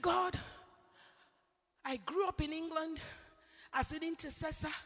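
hushed prayer. Retold or imitated. Retold prayer to God, hushed.

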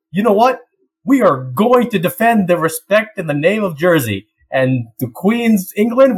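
hammed-up politician. Boris hyping himself, election time.

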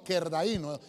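slow "kerdaíno", accent on the í; "kerdaíno" drawn out, stressed on í. Shown as a demonstration. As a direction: say "kerdaíno" as ker-da-Í-no. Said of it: "Lleva acento en la I".

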